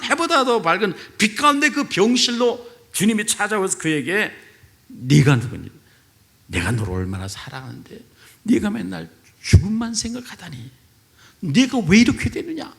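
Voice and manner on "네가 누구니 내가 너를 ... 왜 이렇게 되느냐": the Lord's voice. Retold or imitated. The Lord at the elder's hospital bed, gentle then rising. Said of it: "라고 주님이 말씀하신 이 말씀에".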